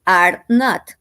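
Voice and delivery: NOT said apart and firm; full form are not, clearly separated; full form, stressed. Shown as a demonstration. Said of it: "or the complete".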